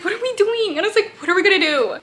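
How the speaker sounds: exasperated, high-pitched reaction; mock panic. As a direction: play the reader fretting for the characters. Retells her panic at the plot.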